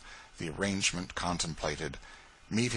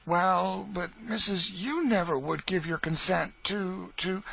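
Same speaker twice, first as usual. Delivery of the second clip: pleading Eliza; 10 semitones higher than usual. Acted. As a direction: plead with her mistress on the edge of tears.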